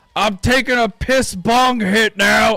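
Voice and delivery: mock intense scream, very high and drawn out. Retelling what a man screamed into the mic on camera, retelling someone screaming into a mic. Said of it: "he's like screaming into the into the mic".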